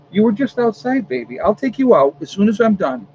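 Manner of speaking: high sing-song pet talk; cooing to dog. Real, not acted. Soothing the whining dog.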